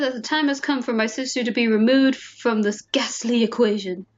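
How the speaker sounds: lightly British reading of a schemer; British accent. Acted. Player reading a murderous heir's thoughts, British accent. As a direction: read it with a hint of a British accent. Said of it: "read this in a British accent".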